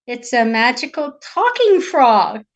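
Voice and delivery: slow, loud echo in disbelief; incredulous king. Acted. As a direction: repeat it slowly, doubting every word. Doubting king repeats her words.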